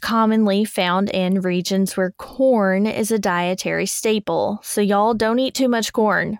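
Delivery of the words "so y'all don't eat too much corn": put-on Arkansas accent. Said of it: "you even pulled out your Arkansas accent".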